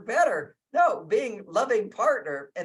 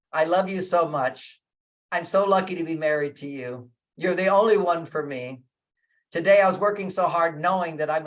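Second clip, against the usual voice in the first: loving husband; 3 semitones lower than usual. Shown as a demonstration.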